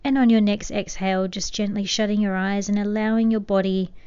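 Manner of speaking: gentle, unhurried meditation guidance with long pauses; soothing meditation voice, lightly hushed; guided meditation. Acted. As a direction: ease the listener into calm, softening toward the ends of phrases.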